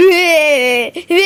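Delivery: drawn-out mock bawl; hammed-up crying. Mother caught weeping in a quarrel, hammed-up crying. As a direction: wail theatrically in long bleats. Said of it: "என்ன அழுதுட்டு இருக்க".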